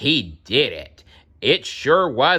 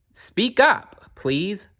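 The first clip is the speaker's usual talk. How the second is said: calling up; 9 semitones higher, slower than usual. A narrator's reading. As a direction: raise the voice so the speck can hear. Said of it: "said Horton".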